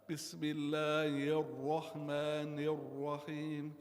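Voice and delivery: Bismillahirrahmanirrahim with the ra in rahman rounded toward ro; deliberate wrong ra. Shown as a demonstration. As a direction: chant Bismillahirrahmanirrahim with the rounded ra error. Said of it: "You see, I'm making a dhamma. It's incorrect".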